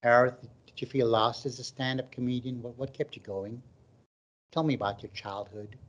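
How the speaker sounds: Oprah-style interviewer. Retold or imitated. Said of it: "I feel like I'm on the Oprah show".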